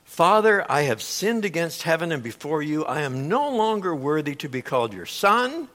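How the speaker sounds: lightly voiced son rehearsing his speech; a hint of a pleading son, mostly plain; rehearsed plea. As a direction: recite it like a practiced apology. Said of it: "He says".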